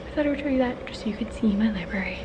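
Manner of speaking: winded from walking around; out of breath. Real, not acted. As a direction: talk while catching your breath. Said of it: "Sorry, I'm out of breath".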